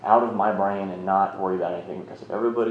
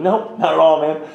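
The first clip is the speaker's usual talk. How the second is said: emphatic no; 6 semitones higher, 9 dB louder than usual. Retold or imitated. His tearful answer retold.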